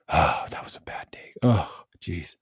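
whispered, pitying parent; mock-pitying whisper to the kid. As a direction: hush it like a disappointed parent, teasing. Mocking a parent's sad reaction.

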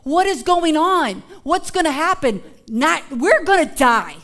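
hammed-up fear of drowning; mock panic. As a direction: act out the disciples' fear. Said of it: "they're like".

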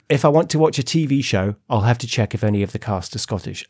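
put-on English accent. Host quotes Kirsty on TV shows, put-on English accent. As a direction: imitate an English interviewee. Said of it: "do an English accent for this".

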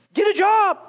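God's gruff answer. Acted.

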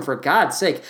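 usual speaking voice

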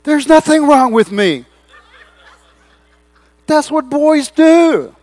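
high, loud and laughing, slowing at the end; laughing retort. Retold or imitated. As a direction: laugh it off proudly. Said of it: "And I said".

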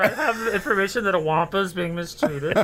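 high-pitched official voice; officious inspector. Pretend. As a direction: play a prim animal welfare inspector. Mock animal welfare inspector.

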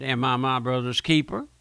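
a touch of mocking sarcasm, lightly played; sarcastic retort. Preacher voicing Cain answering God, mildly sarcastic. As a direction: toss the question back with mild sneer. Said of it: "Can't you hear the sarcasm there".

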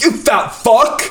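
high, slow, mocking shout; mock troll yell. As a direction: yell it like a nasty online troll. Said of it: "everyone's like".

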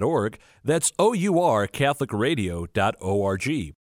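host reading a station ad, upbeat promo voice; radio promo read. Acted. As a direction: sell the network to listeners.

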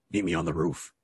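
low, hushed voice from the shadows; menacing low murmur from the dark; dark whisper behind you. Retold or imitated. Shadowy voice calls to Azrael.

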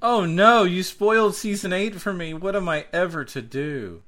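mock dismay. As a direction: play the wounded victim over a spoiler. Mock outrage at spoiler.

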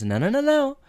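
wag your finger at the teacher; mock lecturing. Sean turns the teacher's own lecture on him, mock stern.

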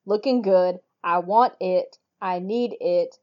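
lightly mocking, unimpressed drone; deadpan it, totally unimpressed. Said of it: "in her unimpressed voice".

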